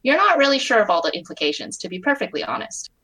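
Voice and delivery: steady, even read-aloud narration; story narration. A narrator's reading. Reading her own fic aloud to friends, calm narration.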